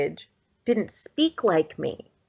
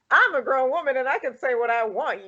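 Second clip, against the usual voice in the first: mock-defiant comeback in a raised pitch; retold mother's retort; 5 semitones higher than usual. Mother answers her daughter in an argument, retold as higher-pitched defiance. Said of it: "they got into an argument".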